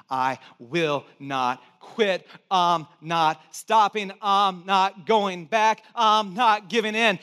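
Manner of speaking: slow, measured determination; resolute. Retold or imitated. Pastor recalling his vow in the water, slow and resolute. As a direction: plant each word like a vow.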